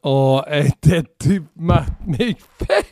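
langsam, vor Lachen abbrechend; lachend. Real, not acted. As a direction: lacht mitten im Satz los. Lacht über Kollegen.

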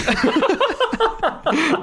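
high, bright burst of laughter. Real, not acted. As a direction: crack up at your own joke. Laughs at own mock insult.

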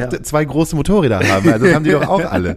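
high, pushy inner voice; playful high-pitched nagging. Acted. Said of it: "wie so eine kleine Stimme in deinem Kopf".

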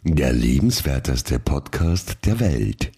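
talking through a mouthful; words round a bite of food; mouth full. Real, not acted. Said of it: "dass du runtergeschluckt hast, bevor du das gesprochen hast".

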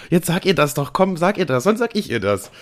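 teasing pushy friend. Retold or imitated. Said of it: "In dem Sinne von so".

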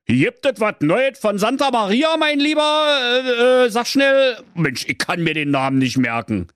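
an impatient king pressing for news; excited old king. Acted. King urging his breathless servant, high and eager.

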